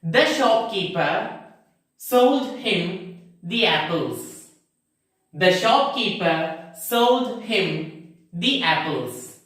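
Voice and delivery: "The shopkeeper" with thuh, "the apples" with thee; slow demonstration, short "The" then long-ee "the" before "apples"; long ee only in "the apples"; both forms of the. Shown as a demonstration. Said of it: "Second example".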